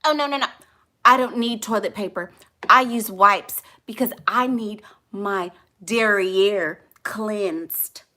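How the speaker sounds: hammed-up refinement, slowing on the fancy words; mock-proper talker. Mocking proper talkers refusing toilet paper, mock-refined. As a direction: draw out the last words with exaggerated dignity. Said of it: "people who talk like that".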